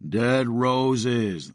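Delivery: lightly voiced zombie grunt. A narrator's reading. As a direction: shove it at her with a grunt. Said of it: "the zombie grunted".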